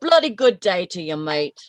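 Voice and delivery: lightly put-on English-Australian accent; a cheerful bloody good day in a half-Australian accent; mock English-Australian greeting. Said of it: "half England and half Australian".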